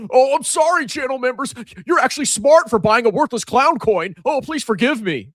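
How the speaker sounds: high, sarcastic sorry; mock apology. Vlogger mocks his members with a high sarcastic apology. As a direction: fake grovelling to channel members.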